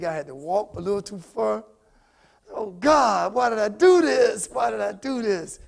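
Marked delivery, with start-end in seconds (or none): 2.5-5.6 mock-agonized wail of regret; hammed-up cry of regret; anguished lament. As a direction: groan it out as a drawn-out complaint. Acting out sore-feet regret.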